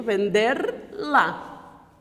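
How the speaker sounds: vender lá drawn out slowly word by word; slow and separated. Shown as a demonstration. Teacher slowing down vender lá for the class. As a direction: stretch out vender lá so each word stands apart. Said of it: "Mantém o teu verbo inteiro".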